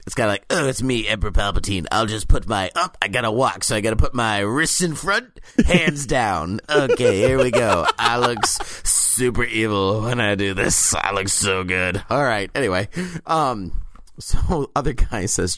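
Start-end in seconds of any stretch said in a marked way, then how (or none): 0.5-12.0 a hint of a preening, sassy Palpatine. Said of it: "my sassy Palpatine impression".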